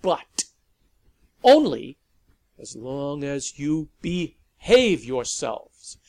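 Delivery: loud growling ultimatum; barking. A narrator's reading. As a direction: bark the house rules at them. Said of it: "Lavinia barked at the vampires".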